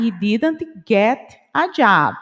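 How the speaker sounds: slow, with "get" and "a" kept apart as separate words; a teacher modelling the careful slow version. Shown as a demonstration. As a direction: say "he didn't get a job" slowly, each word clearly separated. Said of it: "Se eu falo devagar".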